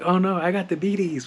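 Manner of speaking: high-pitched mock dismay; mock panic. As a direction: imitate someone panicking, hammed up. Mocking her panic over catching diabetes.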